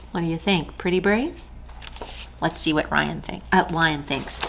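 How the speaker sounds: put-on soft musing to the children; gentle storyteller aside; quiet aside. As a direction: hush and wonder aloud.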